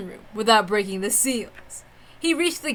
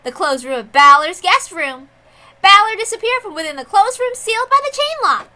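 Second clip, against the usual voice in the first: high, lilting proclamation of the witch; proclaiming witch; 9 semitones higher, 6 dB louder than usual. Acted. Witch overseer proclaims to the crowd, high and playful. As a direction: announce the verdict with a playful high voice. Lambda sets out the duel.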